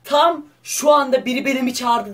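high, loud thrilled report; excited amazement. Real, not acted. Youtuber telling viewers, thrilled, the ghost texted back. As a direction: burst out that the ghost answered.

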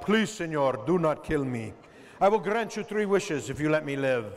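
pleading little bug with a mock Spanish accent; begging cockroach. Cockroach begs the seven-year-old boy for his life, pleading. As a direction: beg for mercy as a tiny cockroach. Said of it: "He's begging for his life".

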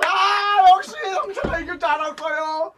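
loud cheering shout; excited shout. Real, not acted. (신나서 외치기)

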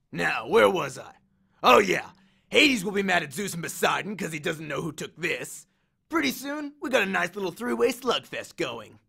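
lightly voiced cocky war god; swaggering Ares, amused. Ares grins at Percy's accusation, lightly cocky. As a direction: toy with the hero, a touch of swagger. Ares relishes his scheme.

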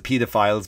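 "pedophiles" as PEE-duh-files; long first vowel in "pedophiles", like "pee"; Irish pronunciation. Shown as a demonstration. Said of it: "we pronounce it pedophiles".

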